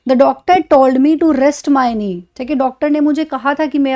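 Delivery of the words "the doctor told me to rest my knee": "I twisted my knee" said very slowly, a bit louder; drawn out, word by word; very slow example. Shown as a demonstration. Teacher reads example to class, very slowly. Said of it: "क्या बोल सकते हैं आप".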